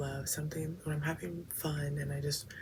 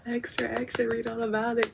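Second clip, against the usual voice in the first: high, loud mock newsboy shout; hammed-up paperboy yelling the headline; newsboy cry; 7 semitones higher, 7 dB louder, faster than usual. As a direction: call it out like a street paperboy. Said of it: "spreading the news, like, what is it called".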